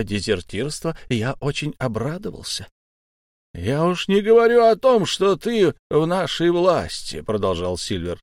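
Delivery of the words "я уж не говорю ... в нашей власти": higher, smooth mock-friendly pirate voice; butter up the captive boy, slyly; sly pirate Silver. A narrator's reading. Old pirate coaxing his captive boy, sly and friendly.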